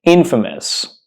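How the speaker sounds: infamous said as IN-fuh-mus, stress first; correct infamous. Shown as a demonstration. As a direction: say "infamous" slowly with a weak "fuh" in the middle. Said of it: "you heard me right".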